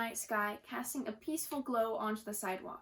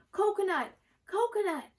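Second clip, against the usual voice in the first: frightened shriek, much higher and louder; scream; 8 semitones higher, 6 dB louder than usual. A narrator's reading. Girl under the porch sees a snake, terrified scream. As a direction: scream the code word in panic. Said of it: "Lila screamed".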